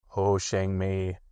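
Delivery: slow, gloomy donkey voice, a touch surprised; slow glum question; surprised Eeyore. Acted. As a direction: Eeyore mildly taken aback. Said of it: "said Eeyore in surprise".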